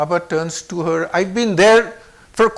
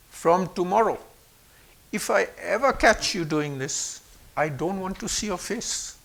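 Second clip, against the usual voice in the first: understated grave warning, dropping softer at the end; very serious; 5 dB quieter than usual. Retold or imitated. Baba warns the boy about tomorrow, very serious. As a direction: deliver a quiet, serious ultimatum. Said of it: "Very serious".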